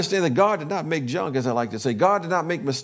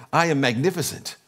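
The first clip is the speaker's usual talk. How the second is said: leading affirmation; 3 semitones lower than usual. Real, not acted. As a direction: proclaim it for the congregation to echo. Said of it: "you can affirm with me".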